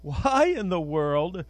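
preacher calling his own name at the mirror, loud; mock self-scolding. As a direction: scold yourself in the mirror with a sharp call. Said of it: "I look and say".

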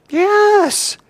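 high, loud eager yes; mock enthusiastic yes. Preacher answers his own question, eagerly. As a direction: answer like a keen student. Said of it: "answering own question".

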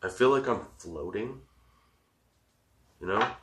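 dreamy, spaced-out stoned voice. Real, not acted. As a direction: float the words out, high. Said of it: "I'm so high right now".

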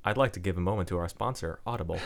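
smooth scripted sponsor read. Pretend. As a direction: read it like a podcast ad. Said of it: "you just sound like a robot".

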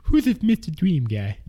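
slow, crooning ladies' man voice; oily smooth seducer. Shown as a demonstration. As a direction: purr it like a smooth talker. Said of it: "Why do I sound like the ladies' man?".

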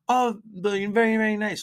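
put-on high sweet old lady voice; old shopkeeper voice. Old Italian jeweler greeting a young customer, high sweet voice. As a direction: play the elderly jeweler flattering a customer. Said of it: "She goes".

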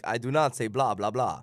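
mock Transylvanian vampire accent. Co-host teasing the host's bad accent with a light Transylvanian imitation. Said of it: "it sounded like Transylvanian or something".

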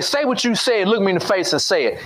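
lightly voiced stern authority; authority figure. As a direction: command him to say it to your face. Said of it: "authority has came and said".

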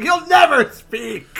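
high slow exclamation. Acted. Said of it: "Tweak's like".

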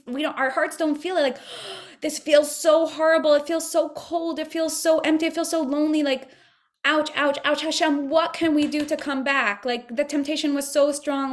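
high, pained pleading to God, with a gasp; Adam and Chava crying out after the sin, pleading with Hashem; anguished pleading. Retold or imitated. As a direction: beg to come back, aching and lost. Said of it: "to just feel that feeling of".

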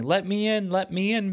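put-on high, eager children calling; excited kids. A narrator's reading. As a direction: beg to be let in. Kids knocking at the door.

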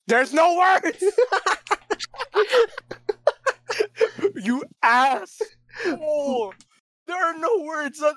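put-on high, frail croaky old man. Shown as a demonstration. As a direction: quaver it out like a frail grandpa. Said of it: "read the next meme like an old man".

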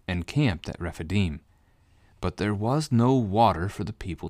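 measured, solemn Bible reading; scripture reading. Acted. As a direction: read the passage aloud to the congregation. Reads Exodus passage aloud.

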